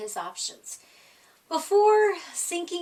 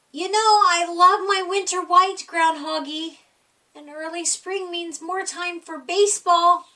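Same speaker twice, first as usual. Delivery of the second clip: louder, quick, sugary wheedling; lightly voiced pushy friend; coaxing animal friend; 3 semitones higher, 6 dB louder than usual. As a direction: flatter him into agreeing. Hare and another pressing Groundhog.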